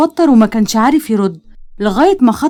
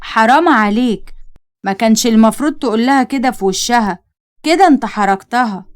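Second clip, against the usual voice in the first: mother gently scolding her son; reproachful. Acted. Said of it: "بصت له بعتاب".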